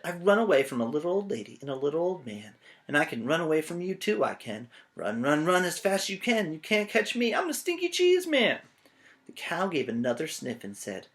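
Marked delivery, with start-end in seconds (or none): 0.0-8.6 fast boast climbing into a high chant; brag, then sing the dare; taunting cheese man. Acted. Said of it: "The stinky cheese man said".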